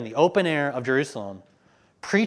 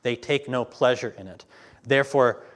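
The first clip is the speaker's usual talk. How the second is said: firm, building proclamation; scripture reading; 4 dB louder than usual. Acted. Preacher reading the Lord's warning aloud, firm and building. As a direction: declare the warning with rising force.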